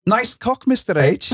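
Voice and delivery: put-on high, lilting Welsh accent. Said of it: "but with a Welsh accent".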